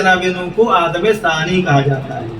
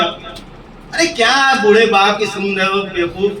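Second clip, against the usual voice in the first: mocking son; slower than usual. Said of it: "یہ میرا اپنا جملہ ہے".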